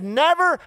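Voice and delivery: "Never," struck high and falling; stressed NEVER; emphatic never. Retold or imitated. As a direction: lay the weight on "Never". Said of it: "He said".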